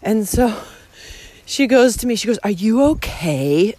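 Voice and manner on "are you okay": slow, lightly imitated French accent; snotty French accent. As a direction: mimic a snotty French girl's drawn-out question. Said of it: "In this, like, snotty French accent".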